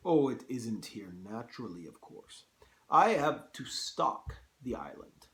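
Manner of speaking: put-on careful second go at a Russian accent; Russian-accented general explaining himself; attempted Russian accent. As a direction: have a try at a Russian accent. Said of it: "hard to do a Russian accent".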